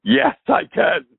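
high, slow, sing-song pride; proud reply. Retold or imitated. Answering Paul about a song, proud and slow. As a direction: savor it slowly and high. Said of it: "I said".

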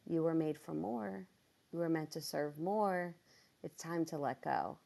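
softly spoken, measured words from God; hushed retold calling; gentle divine message. God's words to her, retold.

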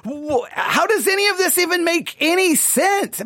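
high-pitched incredulous questioning; baffled. Retold or imitated. Critic questioning why the congregation gets excited, baffled. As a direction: stammer out your disbelief, pitch jumping up. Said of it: "sometimes I'm just like".

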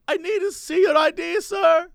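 high, insistent cashier voice; lightly voiced pushy store clerk; older cashier lady. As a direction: pitch it up as the fussy cashier. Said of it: "has a German accent".

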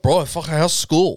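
put-on slow, drawn-out Aussie wog accent; Aussie wog accent, lazy and slow; imitating first gen Serb lads. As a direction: drag it out like the lads at church. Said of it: "They would all be like".

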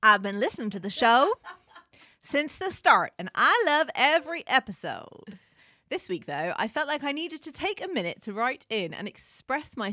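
put-on light Texan accent reading a letter. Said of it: "Are you gonna do the whole thing in a Texan accent?".

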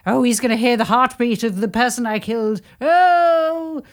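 lightly acted dread of a guilty killer; mock panic. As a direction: imitate a murderer fretting. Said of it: "And he's like".

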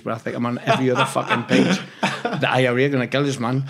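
laughing. Real, not acted. Laughs at the front-page story.

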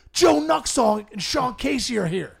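high, slow, drawn-out mock-kid announcement; excited kid. Kid announces the big news.

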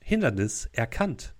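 cleaning drone robot voice; flat robotic monotone. Acted. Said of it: "eine Roboterstimme".

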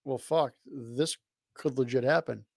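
soft, slow, resigned; grudging aside. Retold or imitated. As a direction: mutter it like a reluctant admission. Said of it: "The armchair G M in me says".

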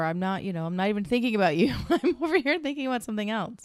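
laughing through the words. Retold or imitated. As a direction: giggle while explaining. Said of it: "retold reply".

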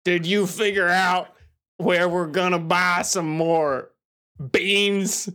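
gruff mountain man. Acted. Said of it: "I can't take this hillbilly".

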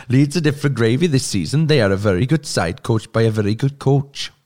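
lightly attempted Welsh accent. Co-host restarts the forum quote after laughing, mild Welsh accent. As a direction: read it out with a touch of Welsh. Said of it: "Can you read it in a Welsh accent".

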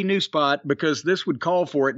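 usual speaking voice

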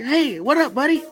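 usual speaking voice

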